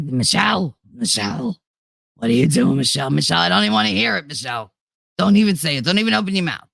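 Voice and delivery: a hint of a mother nagging her daughter by name; mimicking her mother's scolding. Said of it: "she talks like".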